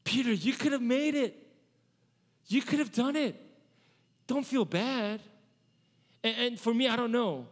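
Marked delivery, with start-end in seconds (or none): 0.0-5.2 encouraging. Shown as a demonstration.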